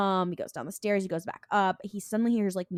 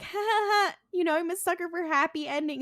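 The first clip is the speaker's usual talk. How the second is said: mock flirty chuckle; 10 semitones higher than usual. Voicing Dean facing the temptresses.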